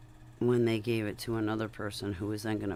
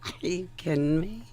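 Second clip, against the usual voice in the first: excited reply; 6 semitones higher, 5 dB louder than usual. Retold or imitated.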